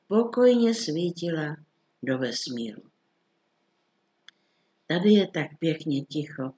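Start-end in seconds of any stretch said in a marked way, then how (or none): none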